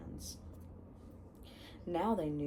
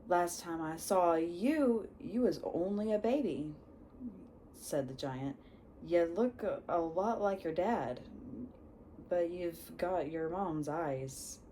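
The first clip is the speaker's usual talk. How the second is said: put-on Hagrid accent. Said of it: "he has his accent".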